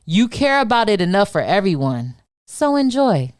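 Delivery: spoken-word poetry performance; spoken word poem. Acted. Continues performing her poem.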